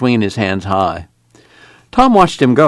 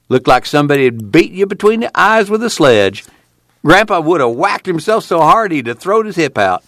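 high, gleeful storytelling; giggly glee; 7 semitones higher than usual. A narrator's reading. Son teasing Ma about fooling her, giggly glee. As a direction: crow it in a much higher, tickled voice. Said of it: "Old Tom giggled".

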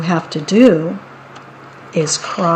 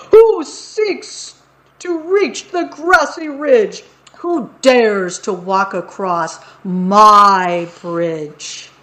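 booming troll challenge; slower than usual. Acted. Troll bellows his challenge.

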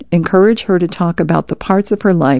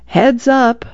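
a light, raised call across the yard; mild yell; 4 semitones higher than usual. Acted. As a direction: call out a warning, half-hearted. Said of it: "he hears her yelling".

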